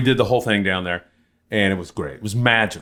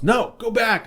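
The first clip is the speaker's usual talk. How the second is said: retold cop command; 12 semitones higher, slower than usual. Tijuana cop orders him back.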